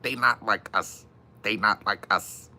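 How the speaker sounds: mock his voice to show it's annoying; a hint of the rapper's nasal rap; imitating a rapper. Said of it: "That's how he sounds".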